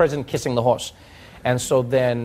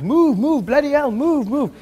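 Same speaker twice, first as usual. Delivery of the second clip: much higher, loud, shouting policeman; barking policeman; 11 semitones higher, 3 dB louder than usual. Retold or imitated. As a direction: bellow at the crowd to move. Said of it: "he's like".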